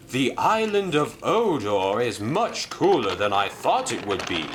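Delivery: a hint of wonder, altered voice; lightly voiced amazed engine. Merlin telling Madge the island is cool, lightly amazed. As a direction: sound impressed by the island.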